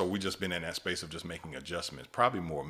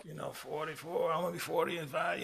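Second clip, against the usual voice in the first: higher, put-on voice for the inner thought; mock inner voice; 11 semitones higher than usual. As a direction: squeak the wish up high like a silly inner voice. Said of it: "at one point I was like".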